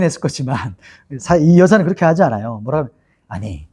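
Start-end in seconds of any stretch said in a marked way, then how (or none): 3.3-3.7 retold frosty challenge, pitched high; cold retort. Samaritan woman to Jesus, who has no water jar, coldly. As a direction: throw it back coldly in a raised pitch. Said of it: "이렇게 또 쌀쌀맞게".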